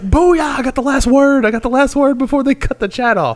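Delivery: high, loud victory crow; loud gloating over the last word; triumphant gloat. Retold or imitated. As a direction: shout it like you won. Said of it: "I was like".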